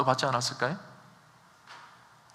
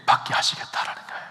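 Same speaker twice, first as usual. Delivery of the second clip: whisper; 3 dB quieter than usual. Real, not acted. Preacher whispers the promise.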